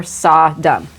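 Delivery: "Sodom" in two separated syllables; broken-up pronunciation. Real, not acted. Host retaking the intro, "Sodom" all broken up. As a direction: say "Sodom" as SOD... um. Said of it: "say it all broken up like that".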